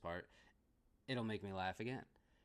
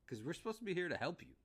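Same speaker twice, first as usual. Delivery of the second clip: blunt retort; 9 semitones higher, 3 dB louder, faster than usual. Retold or imitated. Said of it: "He just says straight to him".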